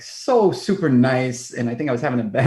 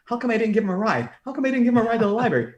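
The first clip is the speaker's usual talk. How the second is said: self-reproach; 8 semitones higher, much faster than usual. Retold or imitated. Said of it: "all I'm thinking is".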